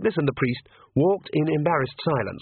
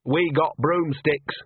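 firmly; 4 semitones higher, slower than usual. Acted. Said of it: "said Nanny firmly".

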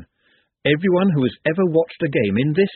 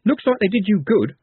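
brittle cheerfulness; 9 semitones higher than usual. A narrator's reading. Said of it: "with brittle cheerfulness".

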